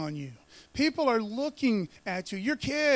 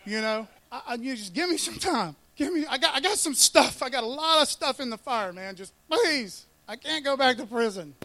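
lively mock plea for more time; pleading debtor; 4 dB louder than usual. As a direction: beg like a dude scrambling for excuses. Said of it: "The dude's like".

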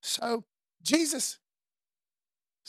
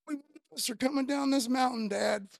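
mock shout at dad; 3 dB louder than usual. Isaac voiced telling his dad.

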